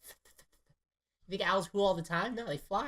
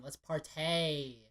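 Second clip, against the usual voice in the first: mock slang; much slower than usual. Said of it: "It's like saying".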